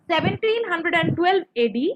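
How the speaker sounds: slow, clear dictation for note-taking. Shown as a demonstration. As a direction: spell it out slowly so students can write. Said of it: "লিখে নাও".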